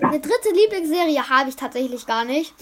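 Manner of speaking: blocked nose from a cold; talking through a head cold with a stuffy nose. Real, not acted. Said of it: "ich bin ein bisschen erkältet".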